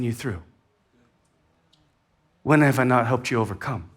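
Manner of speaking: gentle Lord. Retold or imitated. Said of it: "which the answer is".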